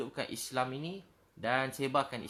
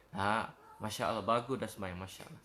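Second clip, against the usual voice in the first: gentle praise; 4 semitones lower than usual. Acted. Preacher models praising a worshipper's prayer, gentle approval.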